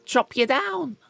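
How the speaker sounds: bully the tree into growing, half joking; mock threat. Player threatening a tree with an axe, mock menace. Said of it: "Have I tried threatening them to grow?".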